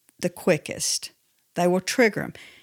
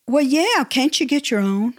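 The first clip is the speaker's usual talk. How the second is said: mildly snippy, higher reply; a sarcastic comeback to her husband; a touch of irritated tone; snappy retort; 4 semitones higher than usual. Retold or imitated.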